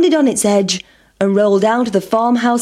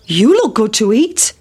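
cockerel. A narrator's reading. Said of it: "said the cock".

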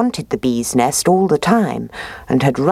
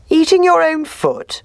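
much higher, smiling fox teasing; sly fox voice; 14 semitones higher, 3 dB louder than usual. Acted. Fox teasing the bear about his foot, high sly voice. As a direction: tease him with a grin, high and sly. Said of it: "inquired the fox with a smile".

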